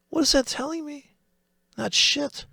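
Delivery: high squeaky mock voice, scoffing at the chart; mocking falsetto. Trader mocking the volume chart to viewers, in a high squeaky voice. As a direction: squeak it out like a sarcastic cartoon.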